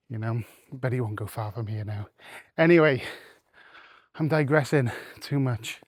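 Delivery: slightly winded from walking; talking between breaths while walking. Real, not acted. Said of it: "it sounds like I'm out of breath".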